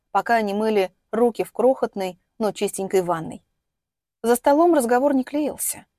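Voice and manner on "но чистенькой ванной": plain reading voice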